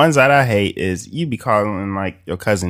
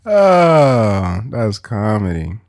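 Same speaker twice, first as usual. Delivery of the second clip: ordinary delivery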